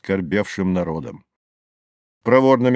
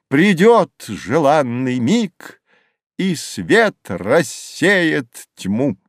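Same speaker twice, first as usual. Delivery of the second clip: slow declamation of verse, pitched up; loud, not quite firm; 4 semitones higher than usual. A narrator's reading. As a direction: recite to a crowd with measured pauses. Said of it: "громким, но не совсем твёрдым голосом".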